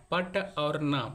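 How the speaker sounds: पट and ना said as separate units; split into syllables. Shown as a demonstration. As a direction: set पट apart from ना. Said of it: "पट जो है वो एक सिलेबल है".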